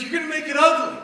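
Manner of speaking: put-on high-pitched child voice; high daughter whine. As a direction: whine it like a worried kid. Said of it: "She's like".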